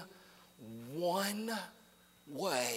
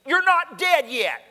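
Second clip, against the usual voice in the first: teasing exclaim; 10 semitones higher, 10 dB louder than usual. Retold or imitated. Preacher teasing crying lady.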